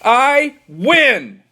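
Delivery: exhausted triumphant gasp; gasped win. Acted. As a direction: pant it to the sky. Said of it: "gasped Billy".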